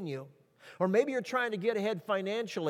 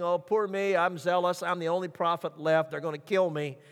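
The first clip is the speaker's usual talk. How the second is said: mock Elijah feeling sorry for himself; preacher mimicking Elijah's self-pitying complaint. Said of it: "he gave the same thing".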